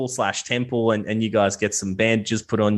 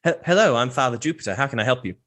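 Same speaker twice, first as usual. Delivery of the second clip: worried priest; 2 semitones higher, faster than usual. Acted. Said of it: "this worried looking priest is like".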